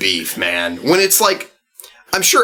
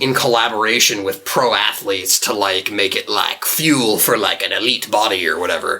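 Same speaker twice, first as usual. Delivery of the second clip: salesman voice; 4 semitones lower than usual. Acted. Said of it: "What accent was that?".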